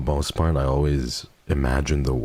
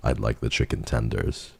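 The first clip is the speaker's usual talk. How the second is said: deep voice. Shown as a demonstration. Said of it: "more acceptable than just going like".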